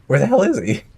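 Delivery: loud, high exasperated yell; frustrated shout. Real, not acted. Frustrated losing prey.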